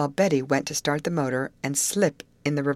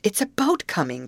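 excited cry; 5 semitones higher than usual. Acted. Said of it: "cried Betty".

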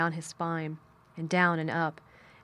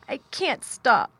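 high, slow, sobbing wail; gasping sob; 7 semitones higher, 7 dB louder, slower than usual. A narrator's reading. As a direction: gasp it out through tears. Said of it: "he gasped and sobbed".

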